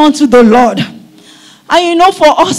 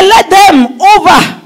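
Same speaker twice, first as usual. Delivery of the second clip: fervent reading; 3 semitones higher, slower than usual. Acted. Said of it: "He said".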